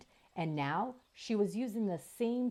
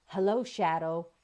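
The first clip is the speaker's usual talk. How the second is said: growl; 4 dB louder than usual. Acted. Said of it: "growled the robot".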